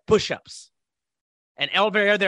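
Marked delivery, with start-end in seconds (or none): 0.1-0.7 "Push-ups" as a short order; retold curt command. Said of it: "he just said".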